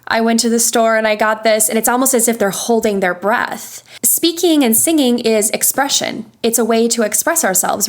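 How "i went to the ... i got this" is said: monotone. Retold or imitated. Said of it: "not a lot of vocal inflection".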